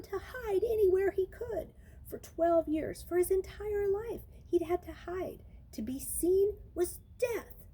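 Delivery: hushed, fearful whisper. A narrator's reading. Narrator whispering Luke's lifelong fear of being seen. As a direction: breathe it like a secret. Hiding his whole life.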